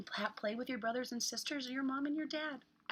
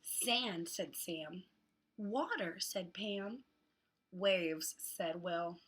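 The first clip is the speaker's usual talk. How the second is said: hot; much slower than usual. Acted. Reads picture book to children.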